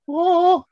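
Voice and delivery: loud, very high "oh"; imitated mascot noise. Showing a pal what it does next, loud high imitated hoot. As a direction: hoot a high comic "oh" in mimicry. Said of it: "Then does that go".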